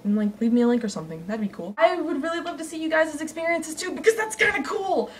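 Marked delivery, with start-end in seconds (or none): 1.8-5.1 breathless from screaming; out of breath. Real, not acted. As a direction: talk while out of breath. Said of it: "now I'm almost out of breath".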